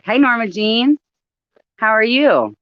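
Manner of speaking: high bright hello; cheery greeting. Real, not acted. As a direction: greet a viewer warmly and high. Greeting viewer on live.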